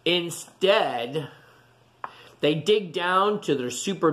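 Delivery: gentle storybook read-aloud voice; storybook rhythm for little listeners; reading to children. A narrator's reading. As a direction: read it like a bedtime picture book. Reading picture book to children.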